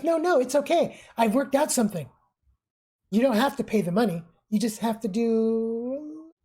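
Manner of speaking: very happy voice. Acted. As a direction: sell the plan cheerfully. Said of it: "He says in a very happy voice".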